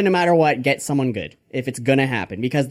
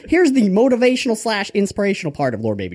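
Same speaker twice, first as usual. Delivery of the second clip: mock preacher, pitched up at first; Father Grandfather; 6 semitones higher than usual. Preacher moving on to the inspirational part, lightly hammed-up. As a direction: announce the sermon's next part with playful zeal. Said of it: "by Father Grandfather".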